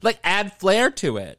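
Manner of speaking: high, loud, drawn-out flourish; theatrical flair. Shown as a demonstration. Host urging listeners to speak up, theatrical flair. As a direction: swoop up grandly and stretch it out. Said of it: "adding a little flair".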